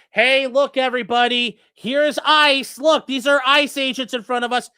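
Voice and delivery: loud announcing, calling to everyone; calling out to the crowd about ICE agents, loud and mocking; mock screaming. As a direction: shout it out to the street. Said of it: "Run around screaming".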